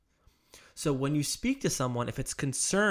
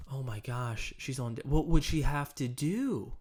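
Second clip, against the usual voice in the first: mirroring with concern. Shown as a demonstration. Agent following up on client's wife on disability, concerned. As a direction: lean in with gentle worry. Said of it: "It would sound like this".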